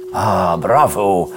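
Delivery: slow, low, drawn-out bravo; admiring praise. A narrator's reading. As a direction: praise the baby with savoured approval. Parent praises child for eating.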